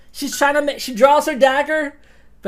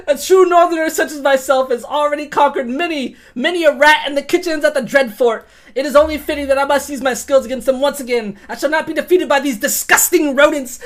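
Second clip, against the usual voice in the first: boastful northerner; 3 dB louder than usual. Acted. Character boasts in voice.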